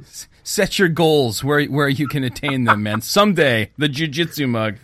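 lightly voiced life-coach catchphrase; motivational voice. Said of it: "your voice is still in my mind".

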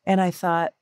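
normal talking voice

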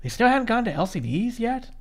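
quoting own surprise, high-pitched "really"; soft, high-pitched disbelief; surprised. Retold or imitated. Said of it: "Which I was kinda surprised".

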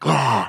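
short mock psych-up yell; pumped-up roar. Shown as a demonstration. Coach showing sporting arousal, mock pumped-up "Ah!". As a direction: imitate an athlete firing themselves up. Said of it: "that state of arousal".

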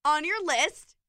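loud and high, thrilled; excited high voice. Real, not acted. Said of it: "Your voice gets really high when you're loud".

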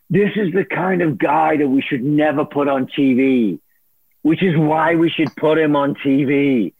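a lightly voiced Moses, barely off his own voice; half-hearted imitation of the boss's pronouncement; bad Moses impersonation. Telling the host how his boss Moses judged him, lightly voiced Moses. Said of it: "this is my bad Moses impersonation".

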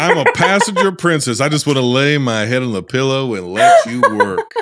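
put-on Southern US accent; Southern drawl accent. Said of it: "I'm working on this accent".

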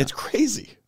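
hushed whisper; whispered amazement. Real, not acted. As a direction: breathe it in awe. Awed aside.

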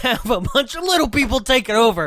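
loud, high mock rant; mock angry. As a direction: rant indignantly with a laugh breaking in. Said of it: "Stop being so angry".

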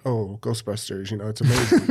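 lightly mocking snobby cinephile drawl; languid snobby drawl. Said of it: "I sound like I'm a cinephile".

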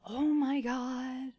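slow, breathless whisper; awed whisper. Real, not acted. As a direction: whisper it in awe. Awed at game trailer.

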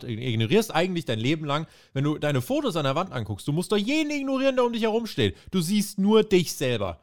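lightly voiced wrestling promo; accusing promo. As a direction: call him out as selfish. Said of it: "dann hat er noch gesagt".

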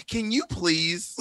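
drawn-out prissy-polite plea; mock pleading husband. Guest imagining husband asking wife for quiet, mock soft plea. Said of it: "black woman's husband is like".

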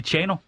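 "Chano" with a harder, T-like start; corrective pronunciation. Shown as a demonstration. Namesake correcting the caller on their shared name, corrective pronunciation. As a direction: say "Chano" as if spelt "Tjano". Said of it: "du siger mit navn forkert".

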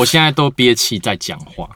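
talking while holding breath. Real, not acted. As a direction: speak on a held breath.

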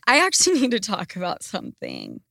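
trying not to laugh while starting; stifled laughter. Real, not acted. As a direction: let a giggle slip between the words. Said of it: "I don't know why I'm laughing".

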